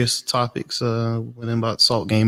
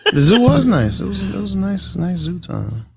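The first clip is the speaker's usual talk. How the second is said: giggling through the words, pitched up; bubbling laugh over a silly line; 8 semitones higher than usual. Real, not acted. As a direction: talk while laughing at yourself. Laughing through zoo comment.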